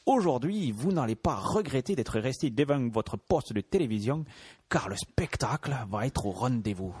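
lightly voiced game show host; hint of a TV host welcome; Patrice Laffont. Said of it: "une imitation de Patrice Laffont".

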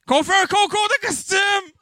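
crié très haut, à pleine voix; annonce criée. Acted. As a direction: lance le concours comme un animateur de salle. Animateur annonce le concours. (animateur qui annonce le concours en criant)

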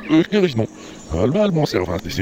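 reversed speech; played backwards. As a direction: talk as if the tape runs backwards. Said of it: "comme si tu parlais à l'envers".

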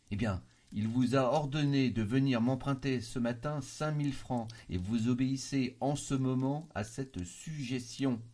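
insistent, slowing to a deliberate end; emphatic explanation. A narrator's reading. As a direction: press each point firmly. Cousin confronted with hypnotic suggestion.

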